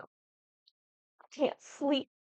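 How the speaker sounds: playful, stretched-out whine; acted giddy sleeplessness. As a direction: act out being too giddy to sleep, slowly. Acts herself too excited to sleep.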